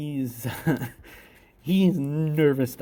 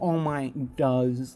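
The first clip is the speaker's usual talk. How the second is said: ordinary delivery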